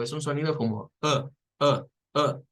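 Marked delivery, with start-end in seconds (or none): 1.0-2.4 short open-mouth uh; schwa sound. Shown as a demonstration. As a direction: push a relaxed uh out. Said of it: "Nótese que la boca está como medio abierta".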